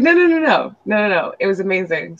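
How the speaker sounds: high, eager rush of denials; emphatic reassurance. Retold or imitated. Client reassuring her about the food, eager high denial. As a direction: insist eagerly it was great.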